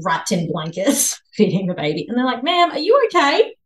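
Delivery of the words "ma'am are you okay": lightly voiced paramedic, higher-pitched question; a hint of alarmed concern; concerned paramedic, retold. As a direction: act out a worried check-in, pitch lifting. Paramedics checking on her, retold.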